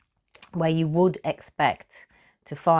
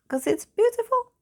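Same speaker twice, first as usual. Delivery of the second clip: very high-pitched mock protest; acting out a wounded little reply; defensive pleading. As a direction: squeak out a feeble defence. Retelling own defensive reply to mother.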